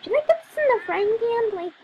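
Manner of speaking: high, loud airhead voice asking silly questions; high, loud mock-ditzy voice for the cooking character; clueless cook. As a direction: play a clueless girl who can't cook. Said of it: "she's like".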